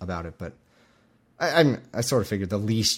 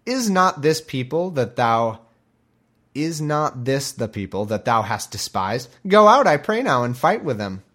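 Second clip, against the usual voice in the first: slow, louder taunting; mocking taunt; 5 dB louder than usual. Zebul taunts Gaal once the jig is up, slow mocking. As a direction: rub it in, then shout the dare. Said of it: "Zebul said".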